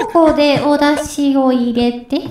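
lightly voiced old lady on a cooking show; a hint of a gentle TV cook grandma; cooking show granny. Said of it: "料理番組みたいな。".

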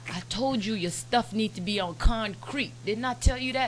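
lightly mock a lecturing lawyer; scolding lawyer. Lawyer reminding a client of his advice, scolding.

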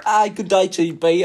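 lightly put-on British accent, a little loud; British caricature with amusement; mock British accent. Friend joining in making fun of British people, mild mock British. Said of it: "just making fun of British people".

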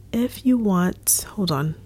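holding back a burp mid-sentence. Real, not acted. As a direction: break off to stifle a burp. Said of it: "I keep burping".

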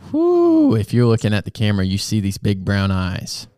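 caffeine-hyped whoop, then rushing fast; wired on coffee, shout and race; juiced. Real, not acted. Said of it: "I am juiced".

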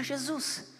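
soft, simple request to Jesus; quiet morning prayer. Acted. Believer asks Jesus to knock on waking, quiet prayer. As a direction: pray it gently, keeping it small.

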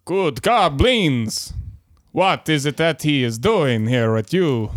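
a lightly voiced goblin, slow start; a hint of goblin in a plain voice. Captain addressing the goblin crew, lightly goblin-voiced. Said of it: "in my best goblin voice".

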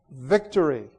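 the sister's cry, quoted with a touch of triumph; sister's triumphant cry. Acted. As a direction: echo the rival's gloating. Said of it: "and said".

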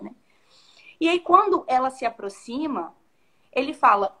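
normal talking voice

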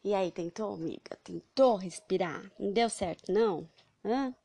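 calling out loudly. Acted. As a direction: shout the question across. Teacher calls out to friend.

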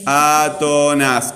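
"átonas" stretched very slowly, syllable by syllable; drawn-out word. Shown as a demonstration. Teacher presenting a term to the class, "átonas" drawn out. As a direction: draw out every syllable of "átonas".

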